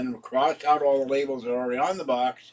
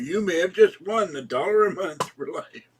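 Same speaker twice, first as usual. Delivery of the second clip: sweepstakes announcer; 5 semitones higher, 5 dB louder than usual. Retold or imitated. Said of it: "Make, make fun of the, uh, Publishers Clearinghouse".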